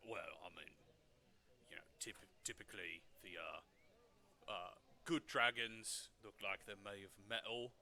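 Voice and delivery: nervous stammering vendor; stuttering. Acted. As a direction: stumble over the words nervously. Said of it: "he just kinda stutters".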